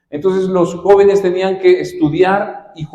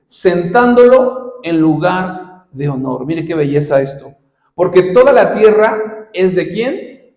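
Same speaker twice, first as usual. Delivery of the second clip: scripture reading. Acted. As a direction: read the verse slowly for the church to hear. Reads scripture aloud to congregation.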